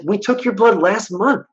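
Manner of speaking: imitating an exasperated doctor, high and slow; mock weary objection. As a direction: protest in a drawn-out high pitch. Retold doctor objecting in argument.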